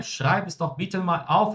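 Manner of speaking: high, drawn-out overdone order; exaggerated command. Shown as a demonstration. Teacher repeating an example too emphatically for students, exaggerated command. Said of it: "agora até eu que exagerei".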